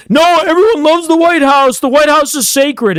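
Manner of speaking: a pearl-clutching mock wail; mocking the offended guy. Streamer mocking an offended viewer, high whiny voice. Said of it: "And he's like".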